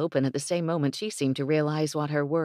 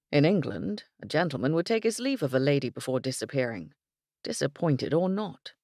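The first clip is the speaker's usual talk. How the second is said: a hint of a prim Englishman, a touch quick; lightly voiced English gentleman. Englishman lecturing on manners, lightly voiced. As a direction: explain etiquette with mild disapproval.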